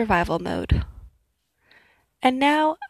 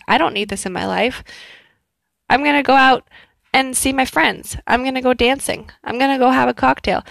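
upbeat going-out voice; 2 semitones higher, 4 dB louder, faster than usual. Retold or imitated. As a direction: announce a fun night out. Deciding to go party.

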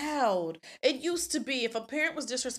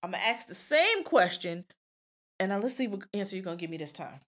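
calm parent; 4 semitones lower, 4 dB quieter than usual. Retold or imitated. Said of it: "I be like".

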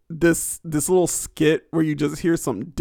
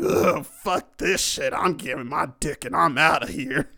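mock country-western accent. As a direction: put on a mock disgusted country-western cowboy. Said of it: "I would have sounded like a fucking country western type".

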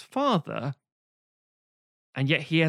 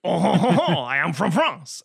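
loud, higher mock French accent; bad French accent; 4 semitones higher, 7 dB louder than usual. Showing someone who can't do accents, bad French accent. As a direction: guffaw into a hammed-up French accent. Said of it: "you can't do a French accent".

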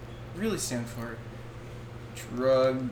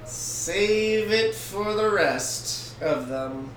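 slow ad announcer; 6 semitones higher, much slower than usual. Retold or imitated. Parody of an ad.

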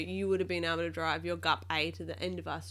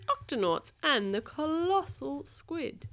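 higher, storybook title read; title announcement; 8 semitones higher, slower than usual. A narrator's reading. Parent introducing the book to a young child, storybook announcement.

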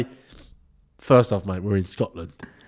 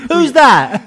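higher, louder startled call; 10 semitones higher, 11 dB louder than usual. Acted. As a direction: call out as if someone's behind you. Role play, startled by stranger.

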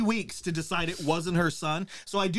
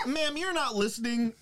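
a hint of a patronising officer, higher; condescending cop; 5 semitones higher than usual. Police officer to the mother, lightly voiced patronising cop. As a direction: talk down to her sweetly.

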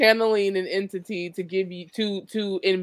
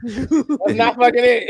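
laughing quote; 2 semitones higher, 5 dB louder, much slower than usual. Retold or imitated. Frustrated quote to self, laughing.

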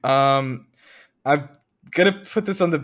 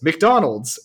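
slightly raised, higher read-out yell; half-hearted shout from a description; mild mock yell; 4 semitones higher, 4 dB louder than usual. Host describing the man in the patent picture, mild mock yell. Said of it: "and yells".

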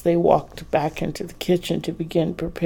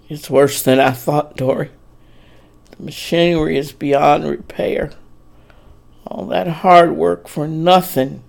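dejected. Acted. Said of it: "he finished dejectedly".

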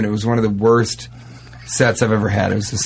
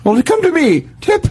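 put-on old-timey salesman; 11 semitones higher than usual. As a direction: sell it like a wagon medicine man. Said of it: "And he goes".

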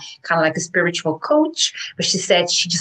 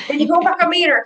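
cheerful chorus; 10 semitones higher, faster than usual. Retold or imitated. Road answering the woman.

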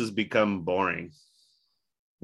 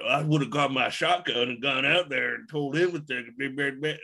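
mocking redneck voice; 5 semitones higher than usual. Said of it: "people was like".

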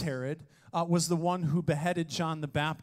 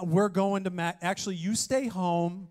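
bossy wife. Retold or imitated. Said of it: "you would tell your man".

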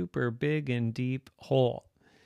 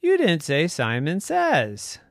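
loud, slow, higher robot reply; 5 semitones higher, 9 dB louder than usual. Acted. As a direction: deliver it deliberately as a talking robot. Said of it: "And then the robot said".

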